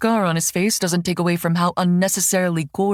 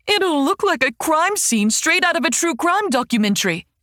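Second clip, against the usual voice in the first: high, hammed-up rising complaint; melodramatic outcry; 4 semitones higher than usual. Heiress guilt-trips her guard in a hammed-up high wail. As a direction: pile on the drama, each line worse. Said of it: "I cry out as dramatically as I can".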